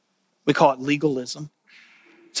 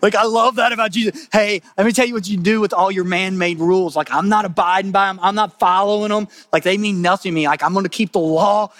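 defiant Jesus; 4 semitones higher than usual. Acted. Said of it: "what Jesus is saying".

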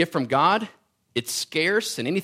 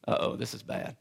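wife's worried aside; 5 semitones lower, 9 dB quieter than usual. Retold or imitated. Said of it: "And she's like".

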